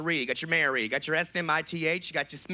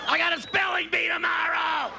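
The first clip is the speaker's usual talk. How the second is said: put-on high, wailing child yell; whine-scream it slowly like a fed-up little kid; hammed-up kid hollering; 12 semitones higher, slower than usual. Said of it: "A little kid there holding a blanket".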